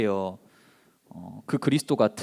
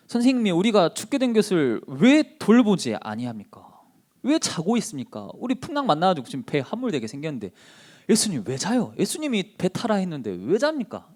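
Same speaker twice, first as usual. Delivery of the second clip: higher-pitched pleading complaint; indignant questioning; 5 semitones higher than usual. Acted. Disciples in a storm waking Jesus, indignant complaint. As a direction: take the teacher to task with raised pitch. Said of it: "이렇게 따지고 있는 거예요".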